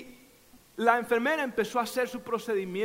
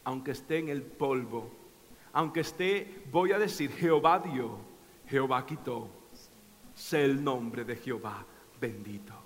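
Job's quiet devotion; 9 semitones lower, 5 dB quieter than usual. Retold or imitated. Job in the dust answering his wife, hushed and low. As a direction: hush it like a broken man still blessing God. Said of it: "Job dijo".

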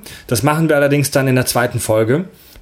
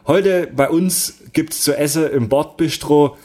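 put-on Swabian accent; slower than usual. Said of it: "auch so ein Schwabe".

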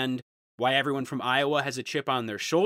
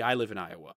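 much lower, softer dopey voice; mock Iowa commenter; 8 semitones lower, 7 dB quieter, faster than usual. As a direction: play the clueless local missing the joke. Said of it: "They were like".

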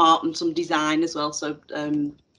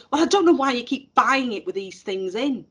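higher, put-upon student whine; a hint of a fed-up teenager; mock exasperated girl; 5 semitones higher than usual. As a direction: play the irritated pupil, lightly. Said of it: "I won't do the Scouse accent".

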